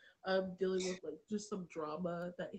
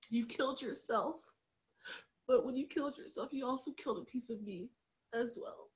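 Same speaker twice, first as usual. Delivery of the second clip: a slightly louder, halting read of a note to her dead brother; reading a letter aloud; 4 dB louder than usual. Real, not acted. Sister reads her letter to her dead brother, halting. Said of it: "That's all far I got".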